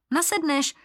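sudden high blurted order. A narrator's reading. Libuše and Dobroslav blurt an order at Martin, urgent. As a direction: snap it out at once. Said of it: "vyhrkli Libuše s Dobroslavem".

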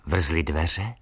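plain reading voice

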